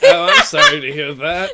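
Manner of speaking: high mock-sympathetic squeak; mock sympathy. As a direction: fake pity.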